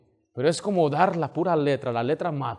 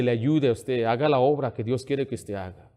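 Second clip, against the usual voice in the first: usual speaking voice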